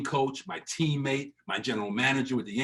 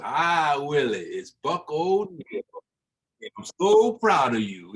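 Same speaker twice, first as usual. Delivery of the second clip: put-on slow, warm old-timer's congratulations, the last line louder; Buck O'Neill impression; 2 semitones higher, 4 dB louder, slower than usual. Buck O'Neill phoning Willie about the Mets job, slow proud old voice. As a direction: lean back and savour each word like a proud elder. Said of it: "that's the Buck O'Neill impression".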